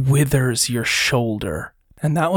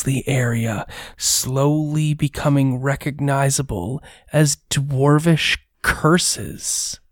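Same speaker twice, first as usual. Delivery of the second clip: measured scene-setting; game master narration. A narrator's reading. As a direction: set an eerie scene, unhurried.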